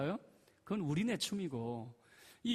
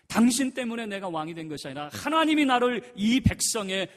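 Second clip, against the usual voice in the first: 하나님이 hit much louder and higher; forceful reply; 6 semitones higher, 13 dB louder than usual. Retold or imitated. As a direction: declare it to her with full force. David answers Michal. (다윗이 미갈에게 큰 소리로 반박)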